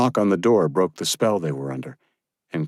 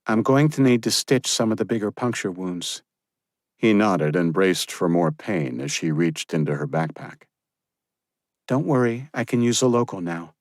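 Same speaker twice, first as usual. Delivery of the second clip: put-on young woman's voice; 2 semitones higher than usual. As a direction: give a brisk order. Josephine explaining.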